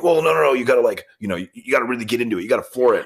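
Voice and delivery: put-on a touch of the older customer pushing back; customer's insistence. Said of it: "And he's like".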